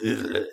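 low, soft mumbled noise; quiet, indistinct blur of sound; imitated muffled audio. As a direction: mimic speech nobody can make out. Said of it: "the rest of it was like".

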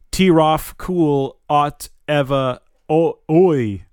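slow reversed gibberish; backwards speech. Acted. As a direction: sound out each backwards word slowly. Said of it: "Speaking backwards".

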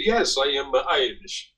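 mock Italian trying to pass as Irish; deliberate, lilting Italian-accented English. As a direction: put on a hammy Italian accent. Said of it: "uh, Italian guy".

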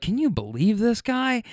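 high-pitched mock disbelief; exasperated wife. Wife turns to the driver about her husband, mock exasperated. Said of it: "she's kinda bitching at him".

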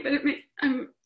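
breath catching between words; halting, catching breath while crying; catching breath midword. Real, not acted. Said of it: "sorry, I'm crying".

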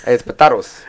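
It's potatoes with an open ah, po-TAH-toes; potahtoes. Shown as a demonstration. Doubling down on po-TAH-toes to tease co-hosts. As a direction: insist on po-TAH-toes, laughing. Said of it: "Latino accent when you say it that way".

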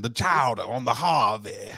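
rough imitation of Boston vowels; attempted Boston accent. Shown as a demonstration. Podcaster showing co-host his Boston accent, playfully bad. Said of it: "That's my Boston accent".

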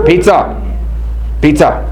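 a mild mock craving call; hammed-up hungry urge; voice of the flesh. Preacher playing the flesh calling out for food, mildly mock. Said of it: "The voice of your flesh speaks loudly".

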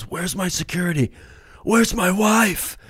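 high-pitched plaintive calling out; distressed wail. Acted. Wounded Bill calls from the departing helicopter, high distressed wail.

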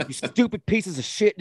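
imitating his own outburst at the game; retold yelling. Fan reenacting his rant at the players, mock fury. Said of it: "just getting real, uh, yelling".

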